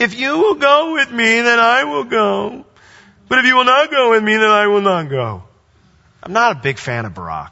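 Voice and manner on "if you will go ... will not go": whiny, complaining voice, pushed up high on every word. Reading aloud Barak's reply in verse 8; whiny Barak voice. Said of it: "I can't read this without doing a whiny voice".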